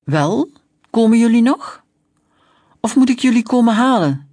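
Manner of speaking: snapped. Acted. Policeman snapping at the sisters to hurry, loud and sharp. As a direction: bark at the dawdling kids. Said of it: "snibde de rijkswachter".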